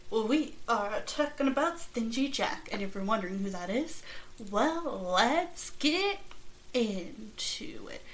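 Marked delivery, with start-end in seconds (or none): 4.5-8.0 spooky whisper. Pretend.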